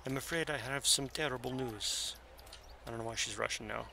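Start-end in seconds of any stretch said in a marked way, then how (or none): 0.0-2.2 GM lightly voicing the worried sorceress in a gypsy accent. The GM's gypsy accent for Zalara, sounding a bit Russian. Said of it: "that's my gypsy accent".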